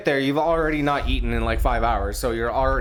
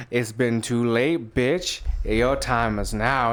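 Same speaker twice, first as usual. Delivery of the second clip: mock killer threat; 4 semitones lower, slower than usual. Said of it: "And he's like".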